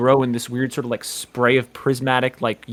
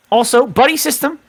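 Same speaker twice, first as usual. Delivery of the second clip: much higher and louder, a bossy little scout; eager Richie; 11 semitones higher, 6 dB louder than usual. Acted. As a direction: announce the rule like a keen scout leader. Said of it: "And he says, and he points at everyone".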